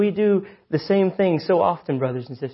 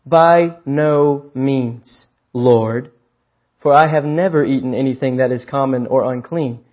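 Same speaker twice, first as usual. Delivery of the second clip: very slow drawn-out refusal, louder; Peter's stubborn refusal; 3 dB louder than usual. Acted. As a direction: stretch out the no like digging in. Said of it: "But Peter said".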